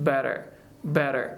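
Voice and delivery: BETTER with T tapped like a quick D; American BETTER, light fast tap in the middle; flap T. Shown as a demonstration. Teacher introduces the next word, BETTER with flapped T. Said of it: "Just we have to say like".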